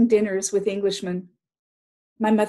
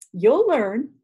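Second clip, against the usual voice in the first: encouraging; 3 semitones higher, 6 dB louder than usual. Acted. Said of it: "Great Uncle encouraged her".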